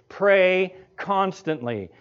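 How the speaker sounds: slow and deliberate on pray constantly; slow emphasis. Shown as a demonstration. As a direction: pray constantly said slowly, stress on pray. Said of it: "Same word".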